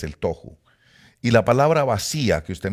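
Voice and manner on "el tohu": "tohu" with an o, stressed on the first syllable; correct pronunciation. Shown as a demonstration. Teacher gives the correct form, "tohu" as TOH-hoo. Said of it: "pronunciación correcta es".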